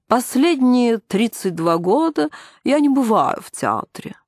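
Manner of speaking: high, slow, tedious recital; bored voice. A narrator's reading. Nina tells the caller she avoids theatres, bored voice. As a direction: stretch it out, boredom on top. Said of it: "скучным голосом".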